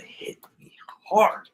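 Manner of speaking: hushed whisper. Real, not acted. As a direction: whisper it, moved. Moved by the title handoff.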